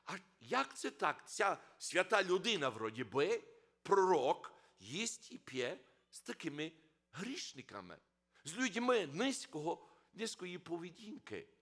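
loud, scandalised muttering; indignant scribes. Retold or imitated. Scribes complain Christ eats with sinners, loud and scandalised. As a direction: sound like a shocked, outraged crowd.

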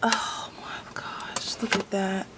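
real hushed wonder; awed whisper. Real, not acted. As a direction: breathe it out in disbelief. Awed at the pencils.

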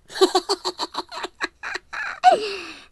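high shrill cackle from the dark; eerie high laugh. Acted. The hidden voice laughs again at the scared apprentice. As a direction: laugh like an unseen spirit in the woods.

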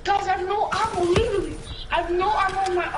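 frantic, pleading out of ammo; rushed, rising panic; panicking gamer. Real, not acted. Out of ammo, zombies closing in.

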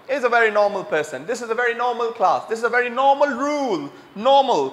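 "normal" said as "naw-mul" each time; slow model sentences, R dropped in "normal"; British-style "normal" with a long vowel, no R; silent R in normal. Shown as a demonstration. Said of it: "आर को silent करना चाहिए".

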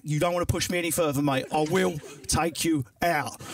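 lightly voiced working-class threat; working-class person. Working-class man warns off his mate, slowing threat. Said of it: "Working class people go back".

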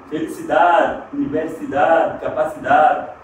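"Felicidade, universidade, capacidade" said Spanish-style, ending in -dad; Spanish -dad ending on "universidade", D barely sounded; mute final D. Shown as a demonstration. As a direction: drop the last vowel of "capacidade" to a mute D. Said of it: "com D mudo".

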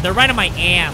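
mock your own line, stretching "ass"; replaying his own panicked line oddly; imitating own odd delivery. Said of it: "why I said it like that. I said".

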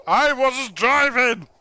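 high, loud, slow mocking protest; mocking whine. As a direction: mimic a friend's whiny excuse. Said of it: "No, it's".

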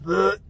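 quick gag noise; imitated gag. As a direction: mimic trying not to throw up.

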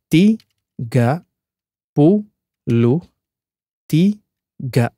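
"tiga puluh tiga" split by syllables, slow; sounding out words. Shown as a demonstration. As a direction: say "tiga puluh tiga" word by word with pauses. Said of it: "if I break down into syllables".

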